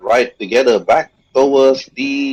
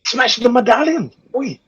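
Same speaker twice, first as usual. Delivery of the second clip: wolf voice; 10 semitones higher than usual. Acted.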